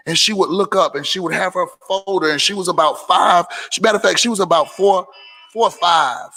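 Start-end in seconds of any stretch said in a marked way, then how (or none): none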